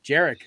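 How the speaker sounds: "Jarek" said as a Polish name; Polish pronunciation. Shown as a demonstration. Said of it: "how you pronounce my name in Polish".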